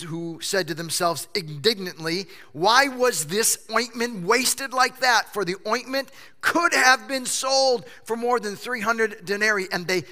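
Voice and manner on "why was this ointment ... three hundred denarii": indignant. Acted. Disciples' indignant quote read.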